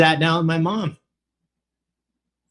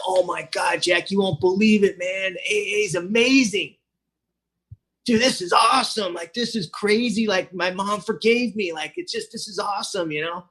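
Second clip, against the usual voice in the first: rushed, gushing and higher; excited; 3 semitones higher than usual. Retold or imitated. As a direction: burst in with good news. Excitedly telling sponsor news.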